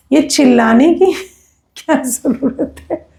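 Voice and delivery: amused retold scolding with a laugh breaking in; laughing reproach. Speaker retelling her advice to an injured sister, laughing reproach. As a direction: laugh partway through the question.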